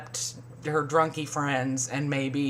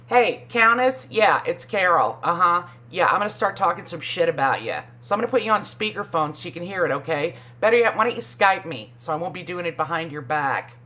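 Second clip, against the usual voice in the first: mock Carol; faster than usual. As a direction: rattle it off like a smug fake call. Mock phone call as Carol.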